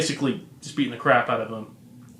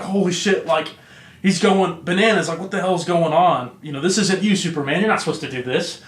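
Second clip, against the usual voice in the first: higher-pitched mock disbelief; retold shock; 4 semitones higher than usual. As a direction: act out an alarmed bystander, voice raised in pitch. Retelling villain's shock at Superman.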